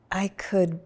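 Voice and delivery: breathy hushed aside; whispered. Real, not acted. Recalling the calm to her husband, a hushed whisper. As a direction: drop to a whisper. Quiet reflective pause.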